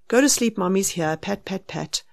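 put-on soft, settling murmur to a baby; soothing. Mother calming a stirring child in bed, soft soothing murmur. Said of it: "you want to calm them down".

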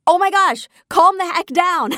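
mock-scolding outburst at her husband; exasperated. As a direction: tell him to chill, half laughing.

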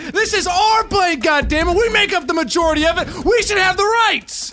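hijacker rousing the passengers; rallying shout. Acted. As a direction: yell it like a mob leader. Passenger leading a mutiny.

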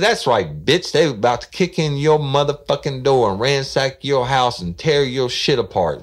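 mock menacing caller; loud, high gloating threat. Prank caller gloating at the woman on the phone, hammed-up menace.

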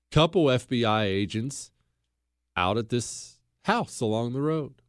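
hushed, cinematic scene-setting; movie scene narration. Shown as a demonstration. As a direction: paint the scene like a film trailer. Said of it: "Now picture this scene".

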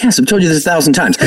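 fast, laughing retort; laughing exasperation. Retold or imitated. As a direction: laugh it off, fed up. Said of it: "I'm like".

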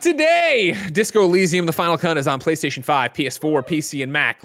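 brisk games-news read; release-list announcer. Real, not acted. Host reading out today's new game releases, announcer read.

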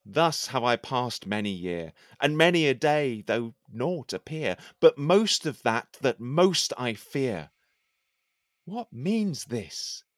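measured, declaiming poem reading; poem recitation. Acted. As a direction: recite it like a courtly poet. Recites his poem aloud.

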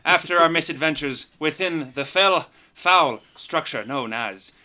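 dramatic recap narration; previously on recap. Acted. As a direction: tell it like an epic storyteller. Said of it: "Give it to us, Garrett".

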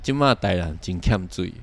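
gentle tone. Shown as a demonstration. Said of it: "要想出一个温柔的方式来讲的话".

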